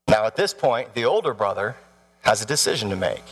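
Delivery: ordinary delivery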